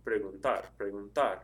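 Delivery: "preguntar" stressed on the last syllable "tar"; stress on final AR. Shown as a demonstration. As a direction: lean on the "ar" ending of "preguntar". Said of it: "The stress is over the A R again".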